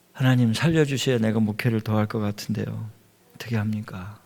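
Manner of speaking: low, understated retold plea; subdued imitation of praying in tears; tearful prayer. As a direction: quietly re-enact a helpless prayer, fading. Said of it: "그러면서 울면서 기도를 했습니다".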